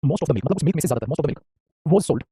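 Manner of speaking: slow, word by word; slow model sentence. Shown as a demonstration. Teacher models the sentence slowly for students. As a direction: spell it out slowly for the class. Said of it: "हमने बोला".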